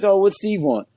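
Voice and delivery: lightly acted prying wife; nosy wife. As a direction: imitate a wife fishing for details. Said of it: "She's like".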